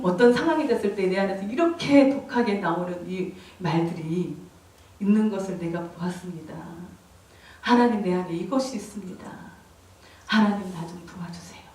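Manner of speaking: low, soft confession to God; humble pleading prayer. Retold or imitated. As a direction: plead quietly for help, voice dropped. Re-enacted confession and plea to God. (낮고 작은 소리로 간구하듯)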